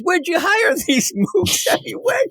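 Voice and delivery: high, fast, sneering puppet voice; dummy Scarface voice. Retold or imitated. Scarface the dummy mocks the ventriloquist's hired men. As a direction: rattle off the insult like a cocky dummy.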